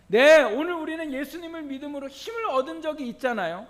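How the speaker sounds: loud, high pulpit questioning; emphatic, projected preaching; forceful preaching. Real, not acted. Preacher puts questions to congregation.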